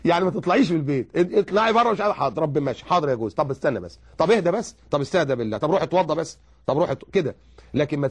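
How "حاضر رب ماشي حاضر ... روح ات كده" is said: soothing obedient wife. Retold or imitated.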